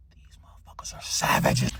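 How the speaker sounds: stunned whisper to oneself; hushed, unvoiced aside; whispered disbelief. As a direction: whisper it in awe. Stunned thought watching friends smoke.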